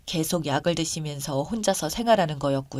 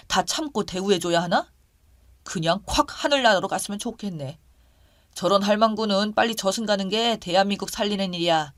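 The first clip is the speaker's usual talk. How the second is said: scornful, moderately raised rant; abusive ranting; 3 semitones higher, 5 dB louder than usual. Acted. Boyfriend curses the injured neighbor to his partner, abusive ranting. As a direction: curse her with contempt, a little raised. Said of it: "진짜 너무 욕을 하더군요".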